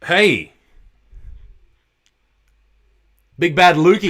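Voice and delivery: loud, high, hyped phone hello; excited greeting. Real, not acted. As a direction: greet the fan like a radio host. Phone call greeting a fan.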